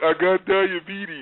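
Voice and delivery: derisive, teasing, mocking mimicry of another's speech. Speaker retells how a man told him his diagnosis: mocking imitation of a man. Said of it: "I would mock the way he said it".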